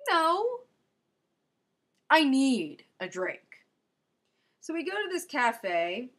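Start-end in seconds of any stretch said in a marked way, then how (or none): 0.1-0.7 high, loud, punchy no; insisting to herself she needs one; emphatic no. Retold or imitated. 2.1-3.4 louder, slow and emphatic; exhausted traveler declares she needs a drink; insistent punchline. Retold or imitated. Punchline of inner monologue.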